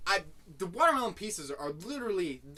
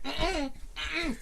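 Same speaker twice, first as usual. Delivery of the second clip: high wordless mock fussing; squirming "mm-mm" refusal, pitched up; fussy baby whine; 8 semitones higher than usual. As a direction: imitate a protesting infant. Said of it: "he was like bitching a fit".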